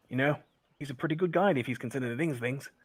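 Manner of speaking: a hint of a playful woman; woman's voice. GM voices woman praising guide.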